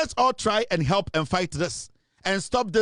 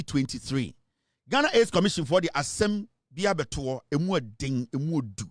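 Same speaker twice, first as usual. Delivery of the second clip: lower, measured news-reading voice; 3 semitones lower than usual. Real, not acted. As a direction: report it in a low, sober register. Reads out a news report.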